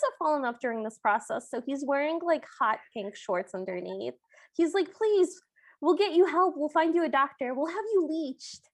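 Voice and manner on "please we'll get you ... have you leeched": high, pleading royal father; pleading king. Retold or imitated. King pleading with his son at the gate, high voiced. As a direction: beg him like a worried king.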